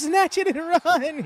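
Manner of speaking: loud, high, laughing shout; excited shout. Real, not acted. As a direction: yell it out in delight. Cheering the same words loudly.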